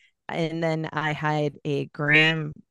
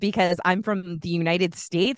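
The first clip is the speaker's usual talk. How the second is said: sarcastic; 5 dB louder than usual. Retold or imitated. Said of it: "I'm like".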